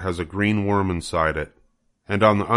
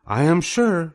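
higher, formal spider lady voice; Charlotte the spider; 10 semitones higher than usual. Acted. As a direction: announce it like a gracious spider. Charlotte's voice in story.

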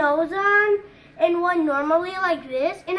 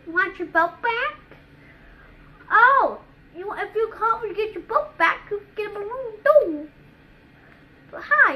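Pennywise with red nose; 3 semitones higher than usual. Shown as a demonstration. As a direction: play it like a clown with a stuffed nose. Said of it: "with a big fat red nose".

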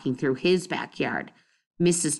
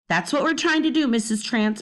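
sweetly; 5 semitones higher than usual. Acted. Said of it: "Bean said sweetly".

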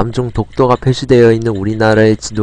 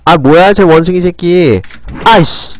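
annoyed outburst; 5 semitones higher than usual. Real, not acted. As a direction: swear at the monkey. Hit by enemy in game.

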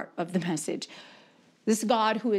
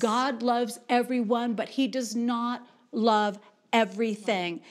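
very slow, word-by-word declaration; emphatic preaching; slower than usual. Real, not acted. Preacher making it really clear to the congregation, emphatic preaching. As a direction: preach it with weighty pauses between words.

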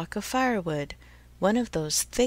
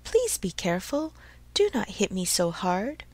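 beseeching. Acted. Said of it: "a wee little voice say in a beseeching tone".

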